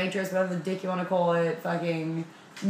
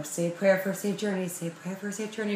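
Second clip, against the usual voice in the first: mom's mantra; 3 dB quieter, faster than usual. Retold or imitated. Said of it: "my mother is huge on the".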